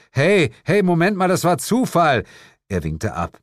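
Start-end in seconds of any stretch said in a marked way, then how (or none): 0.1-2.2 higher, louder hasty objection; protesting. A narrator's reading. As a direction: cut in defensively. Narrator protests against devil's accusation. (protestierend dazwischenrufen)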